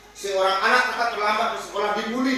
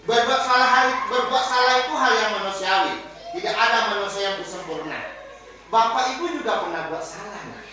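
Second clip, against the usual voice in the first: reassuring teacher; 3 dB louder than usual. Shown as a demonstration. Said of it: "guru berkata".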